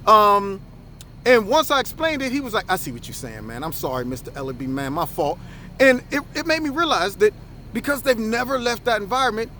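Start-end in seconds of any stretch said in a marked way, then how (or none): 2.7-5.4 mild imitated apology. Kid apologizing after explanation.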